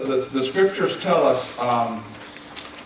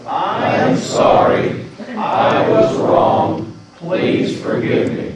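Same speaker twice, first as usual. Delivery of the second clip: louder, slower, every word pushed out; more enthusiasm; 5 semitones higher, 4 dB louder, much slower than usual. Shown as a demonstration. Pastor urging the congregation to repeat it with more enthusiasm, loud and slow. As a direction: say it like you really mean it, with gusto. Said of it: "Let's try it one more time".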